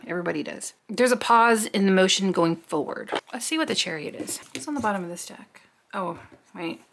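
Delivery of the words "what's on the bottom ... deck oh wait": breathy whisper to herself while turning cards; whispering aside. Real, not acted. Reader peeking at the deck, whispered aside. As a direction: hush it like a private question to the deck.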